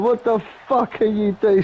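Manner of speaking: mock disbelief, pitched well up; high-pitched, imitating his own stunned challenge; retold incredulous question. Teen confronting his neighbour over a knife on an umbrella, retold incredulously.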